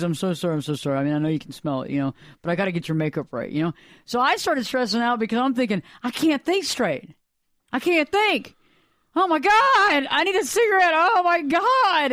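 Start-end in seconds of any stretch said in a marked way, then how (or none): 0.0-3.7 apologetic makeup artist. Retold or imitated. Makeup artist excusing her smoke smell, mildly apologetic. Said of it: "She's over there being apologetic". 6.0-12.1 acted freak-out. Host retelling her pre-TV nerves, freaking out. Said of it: "I'm just, like, freaking out".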